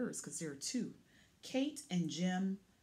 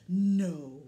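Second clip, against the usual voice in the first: loud, firm no; big storytime no; defiant no; 4 semitones lower, 7 dB louder than usual. Pretend. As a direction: shout it like you mean it. Truck refuses to give up.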